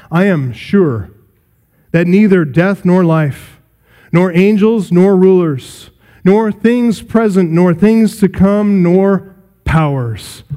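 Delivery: slow, measured Bible reading; scripture reading. Acted. Preacher reading Romans aloud to the congregation, slow and measured. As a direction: read each clause deliberately.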